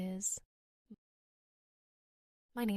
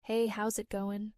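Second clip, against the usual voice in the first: casual demo. Shown as a demonstration. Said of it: "is said like this".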